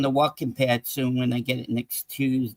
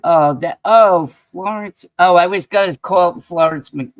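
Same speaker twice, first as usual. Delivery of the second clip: excited recognition; 3 semitones higher, 8 dB louder than usual. Real, not acted. Spots Florence in chat.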